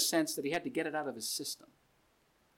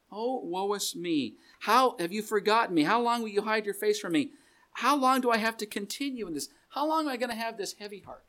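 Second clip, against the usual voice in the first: whining; 5 semitones higher, 4 dB louder than usual. Retold or imitated. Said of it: "David, a man after God's own heart, was whining".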